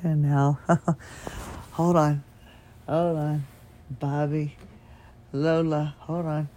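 weak, fading voice; losing voice. Real, not acted. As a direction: voice nearly gone. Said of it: "kinda like I'm doing now".

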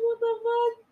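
half-laughing shock; mock disbelief. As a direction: gasp it out in disbelief. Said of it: "It's like".

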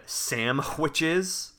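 "sandwiches" drawn out as "samhwitches"; misspelling "sandwiches" aloud with an m and hw; misspelled sandwiches. Shown as a demonstration. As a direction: say "sandwiches" slowly as "sam-hwitches". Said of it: "he always spells it like that".

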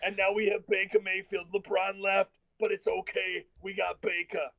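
put-on, level-pitched Cleveland local; exaggerated Cleveland accent, mocking the locals; hammed-up proud Cleveland native. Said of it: "they just talk like a fat garbage person".

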